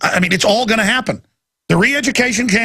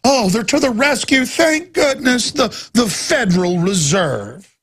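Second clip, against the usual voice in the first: sarcastic relief; 3 semitones higher than usual. Acted. Sarcastic praise of the Fed.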